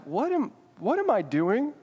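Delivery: mild creeping dread; uneasy. Pretend. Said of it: "your heart starts beating kinda fast".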